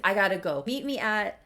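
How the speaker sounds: rushed and loud, ending on a high sing-song Le Petit Café; flustered goodbye into the phone; hurried hang-up. Retold or imitated. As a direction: hang up in a flustered hurry, tossing out the café name with a flourish. Hurried hang-up, fake French.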